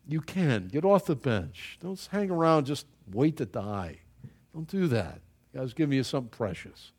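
ordinary delivery

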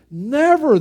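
high, loud, firm never; emphatic never. Real, not acted. Pastor firmly refusing a tearful apology, emphatic. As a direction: cut the apology off sharply.

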